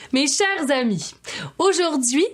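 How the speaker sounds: grand, high-pitched poetry show announcer; theatrical host introduction. Acted. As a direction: announce the guest with swooping flourish.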